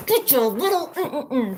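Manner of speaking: giggling at the joke; laughing slowly. Real, not acted. Laughing at her own joke.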